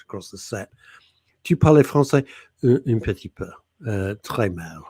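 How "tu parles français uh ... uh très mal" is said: put-on halting schoolboy French accent. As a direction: attempt French like a hesitant schoolboy. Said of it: "Schoolboy French".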